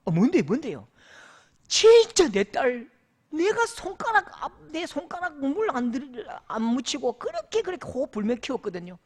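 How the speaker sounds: imitating a furious elder, high and loud; angry complaint. Elder venting to his pastor, mock furious outburst. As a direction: play the outraged father, voice climbing as he vents. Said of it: "화를 내시는데요".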